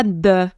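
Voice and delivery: hard D in "de", a wrong substitute for TH; isolated "de" with a stopped D; D instead of TH. Shown as a demonstration. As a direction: demonstrate a firm French D on "de". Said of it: "c'est pas ça".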